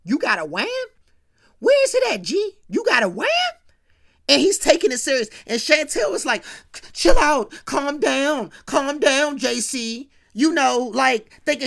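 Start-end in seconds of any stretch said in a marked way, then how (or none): 0.0-3.3 yelled, much higher interrogation; angry cop shout. Retold or imitated. JC confronts G about gun. 6.9-10.1 loud, higher call to calm down; urgent pleading. Retold or imitated. Chantel tries to stop JC.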